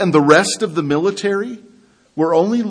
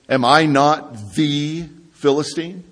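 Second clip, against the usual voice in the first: THE stretched out slowly as "thee"; slow, weighty "thee" before Philistine, THE singled out; stress on THE; 3 semitones lower, 3 dB quieter than usual. Retold or imitated. Preacher quotes Goliath stepping forward, stress on THE as "thee". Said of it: "There's an emphasis there on the".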